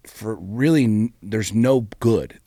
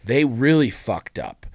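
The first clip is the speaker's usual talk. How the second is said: mock complaining; 3 semitones higher, 6 dB louder, slower than usual.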